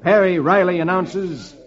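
lively, relieved storytelling; dramatic story narration. A narrator's reading. Crew learns the danger has passed, rousing narration. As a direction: lift the tale as the danger passes. Reads comic adventure aloud.

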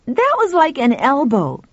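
put-on a touch of boyish excitement; lightly voiced excited boy. A narrator's reading. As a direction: explain it as an eager boy. Boy excitedly explains the blob.

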